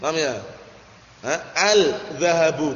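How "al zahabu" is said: slow "Al-zahabu" with the l sounded; unmerged article in "Al-zahabu"; wrong clear al. Shown as a demonstration. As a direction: hold "Al" apart from "zahabu". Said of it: "gagal paham".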